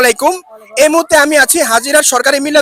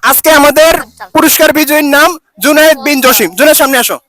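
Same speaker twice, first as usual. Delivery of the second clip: hyped giveaway announcement; 3 dB louder than usual. Real, not acted. Announcing the prize winner to kids.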